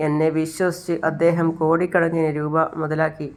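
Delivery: slow, mildly tearful lament; a touch of weeping, drawn out slowly; understated tearful plea, slow; crying while speaking. Acted. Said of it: "Chandrika വീണ്ടും കരഞ്ഞുകൊണ്ട് പറയാണ്".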